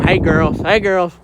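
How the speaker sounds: loud call to the cows; demonstrated yell to the cows; cattle call. Shown as a demonstration. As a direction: holler out to bring the herd in. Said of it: "I just yell at 'em".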